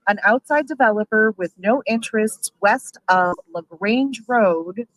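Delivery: loud, slow, emphatic indignation; really angry, hammering out each point. Real, not acted. Brewery owner objecting to the board's chosen developer, angry. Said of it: "I'm so angry".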